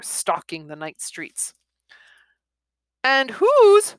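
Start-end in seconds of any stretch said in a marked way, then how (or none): 3.0-3.9 high, loud cut-off question; eager boy. Acted. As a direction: start asking eagerly.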